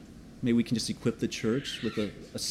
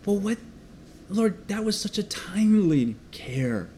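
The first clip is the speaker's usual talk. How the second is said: awed whisper; 7 semitones higher than usual. Real, not acted. Pastor whispering thanks to the Lord for a song. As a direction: hush it like a private prayer to God. Prayerful aside, unvoiced whisper.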